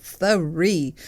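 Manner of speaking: Three dragged out, weighted, falling; emphatic three again. Shown as a demonstration. Host repeating her demo of Three for listeners: heavy stress. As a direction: give Three the same heavy drawn weight. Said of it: "And you should say it like that".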